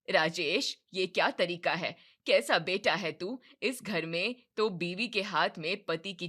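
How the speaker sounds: loud scolding mother; angry. Acted. Mother scolding son for obeying his wife, angry and loud. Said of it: "कमला गुस्से से कहती है".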